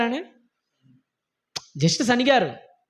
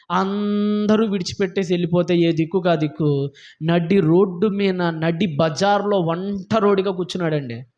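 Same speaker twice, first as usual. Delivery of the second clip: lowered, plaintive storytelling with trailing phrase endings; pitying lament; 3 semitones lower than usual. Retold or imitated. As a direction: mourn over the abandoned prophet's plight. Laments the prophet's total abandonment.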